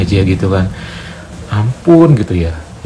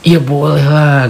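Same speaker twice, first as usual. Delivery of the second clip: eager yes; 8 semitones higher, 4 dB louder, slower than usual. Retold or imitated. Eagerly agreeing, cannot refuse.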